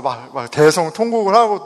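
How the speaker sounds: ordinary delivery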